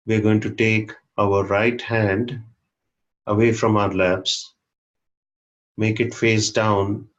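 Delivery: measured instructions with pauses between phrases; unhurried meditation guide, one short phrase at a time; guided meditation. Real, not acted. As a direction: guide the group gently through each step. Guides meditation posture step by step.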